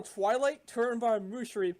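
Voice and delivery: high, urgent yell to companions; in-character yell. Acted. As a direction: yell a high-pitched warning to your friends. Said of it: "I'm just yell".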